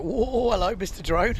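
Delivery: real startled call to a drone; startled whoa. Real, not acted. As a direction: jump back as the drone buzzes close. Drone flies close to commentator.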